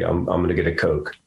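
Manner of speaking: Philly accent demo with flattened vowels, said lightly; a quick casual Philadelphia accent line. Shown as a demonstration. Showing how Philly locals sound, in a light Philly accent. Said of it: "you flatten your A's and you say".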